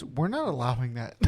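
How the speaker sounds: laughing through it. Retold or imitated. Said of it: "M L B front office steps in and goes".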